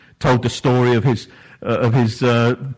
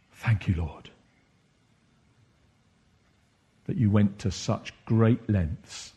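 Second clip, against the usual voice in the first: spoken prayer. Acted. Personal prayer voiced aloud.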